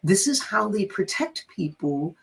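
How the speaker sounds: retold gentle, careful explanation with halting starts; mildly coaxing, measured reassurance; patient explaining. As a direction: explain it kindly, picking the words. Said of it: "I was saying it just like this".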